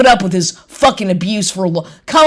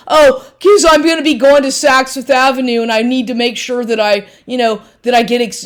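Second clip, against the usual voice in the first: mocking imitation; 4 semitones higher than usual. Mocking ex's status talk.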